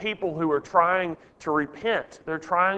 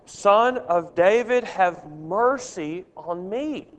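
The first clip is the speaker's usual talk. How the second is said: slow, drawn-out imitated plea, raised at first; measured reading of a cried-out appeal; crying out; slower than usual. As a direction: stretch out a mildly acted cry for mercy. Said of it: "he cries out the second time".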